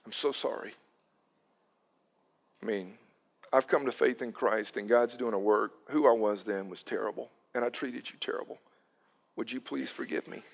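a hushed, sincere plea for forgiveness; tender apology. Retold or imitated. Continued apology to Amy.

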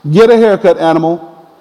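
mock-stern order, dropping on the last word; scolding dad. Dad ending the call to his son, scolding. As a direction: order him like a fed-up father.

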